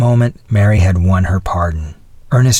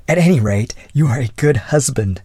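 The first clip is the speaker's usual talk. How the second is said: higher young lady's voice, mildly mocking; satirical; 5 semitones higher than usual. A narrator's reading. Young lady mocking a loyal husband, lightly satirical. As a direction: give him satirical praise. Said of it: "she said satirically".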